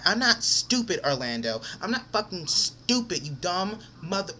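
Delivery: exasperated anger, leaning on "stupid"; really mad, slowing down on the repeat. Real, not acted. Telling off the friend who lied to him, mad. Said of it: "I'm so mad right now".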